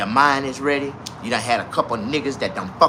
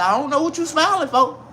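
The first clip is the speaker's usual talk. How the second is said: 1 retold put-down; 11 semitones higher than usual. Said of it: "I said".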